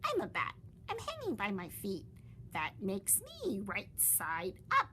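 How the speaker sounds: a lightly voiced young bat. Stellaluna answers the bat.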